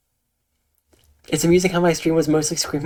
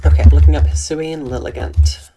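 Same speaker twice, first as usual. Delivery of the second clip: loud announcement; 10 dB louder than usual. Real, not acted. Announcing the lookup to chat.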